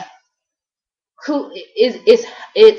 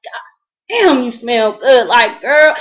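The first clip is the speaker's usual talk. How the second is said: imitating his repeating; 2 semitones higher, 5 dB louder, slower than usual. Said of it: "that's how he kept repeating it".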